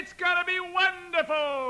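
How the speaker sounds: very high, loud jubilant call. Shown as a demonstration. Teacher modelling for singers, calling out. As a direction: belt it out like an announcement to all. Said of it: "it's in your calling voice".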